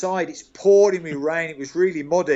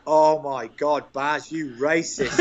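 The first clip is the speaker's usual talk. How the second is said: slow, hammed-up gasp of outrage; teasing mock disbelief at a teammate; mock shock; slower than usual. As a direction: play it as fake horror, slowly.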